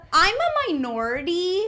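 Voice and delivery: mock proclamation. Little Laura stands up on the show, mock proclamation. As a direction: announce it high, like standing up to be counted. Acting out her stand-up declaration.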